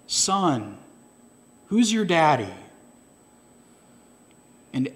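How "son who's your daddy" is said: sincere. A narrator's reading. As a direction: ask kindly, like a caring preacher. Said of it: "sincerely asked him".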